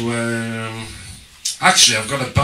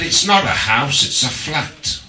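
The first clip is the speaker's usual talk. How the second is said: Cockney correction; 4 semitones higher, 3 dB louder than usual. Retold or imitated. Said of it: "corrected by a Cockney bloke".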